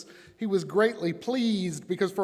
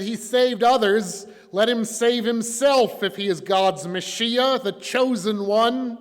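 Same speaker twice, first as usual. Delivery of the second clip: loud, high, drawn-out taunt; sneering; 7 semitones higher, 10 dB louder, slower than usual. A narrator's reading. Rulers jeer at Jesus on the cross, sneering. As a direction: throw the jeer out loudly. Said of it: "the rulers even sneered at him".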